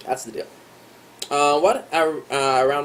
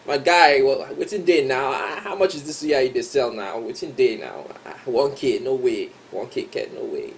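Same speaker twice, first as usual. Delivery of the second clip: haggling in Pidgin. Shown as a demonstration. Haggling with a suya seller over the price, mock-outraged Nigerian Pidgin. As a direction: bargain hard at a market stall in Pidgin. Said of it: "you still gotta yarn some Pidgin".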